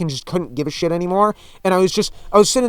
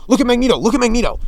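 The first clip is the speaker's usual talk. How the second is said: mock whiny callout; 5 semitones higher, 3 dB louder, faster than usual. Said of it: "complaining and going".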